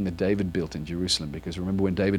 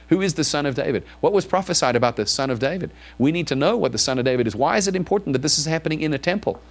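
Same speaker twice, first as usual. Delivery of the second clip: insistent questions, building higher in pitch; ramped-up questioning; 4 semitones higher than usual. Acted. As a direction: fire off probing questions, steadily climbing in urgency. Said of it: "you need to ramp it up".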